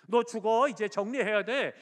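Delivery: loud, high pronouncement of doom; a preacher voicing God's stern word; stern death sentence. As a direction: declare it like a verdict from heaven. God's verdict repeated, acted.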